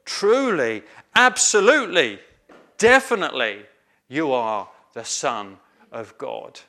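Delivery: each word punched with conviction; emphatic. Shown as a demonstration. Preacher showing the disciples' emphatic confession. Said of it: "They're quite emphatic".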